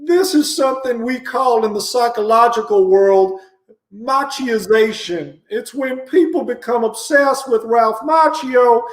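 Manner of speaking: a hint of a folksy TV doctor; lightly voiced talk show host; Doctor Phil. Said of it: "As Doctor Phil".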